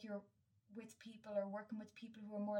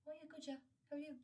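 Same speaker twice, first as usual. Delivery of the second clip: bright, higher put-on breeziness; fake cheerful reply; 7 semitones higher, faster than usual. To a neighbour on a walk, a mock chipper brush-off. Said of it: "And I'm like".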